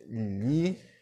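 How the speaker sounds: "Livro" said slowly as li-vro, pausing between syllables; split into syllables. Shown as a demonstration. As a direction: break "Livro" into its syllables for students. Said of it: "Bora separar?".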